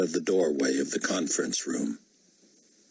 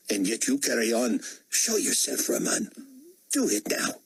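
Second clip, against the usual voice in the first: put-on Indian-accented protest, a little higher; defiant Indian dissident; 4 semitones higher than usual. Dissident telling the potentate he would rather die, defiant. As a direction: challenge the ruler with nothing left to lose.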